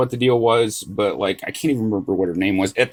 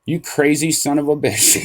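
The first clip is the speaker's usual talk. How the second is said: higher, mock-astonished friend; imitated stunned amazement; 4 semitones higher than usual. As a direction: act out a friend's jaw-dropped disbelief. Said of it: "Charlie's eyes were the size of dinner plates".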